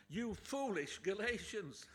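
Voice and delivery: loud, slow scolding of foolish Galatians; stern rebuke. Shown as a demonstration. Paul scolding the Galatians, loud and slow. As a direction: thunder it out like an angry apostle. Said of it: "the tone in Paul's writing, in his voice".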